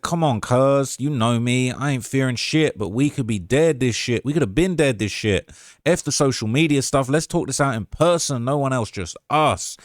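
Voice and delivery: lightly imitated lilting Savannah drawl; a rapper's voice. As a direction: read the message in a loose Southern impression. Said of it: "if I can do the Quando voice".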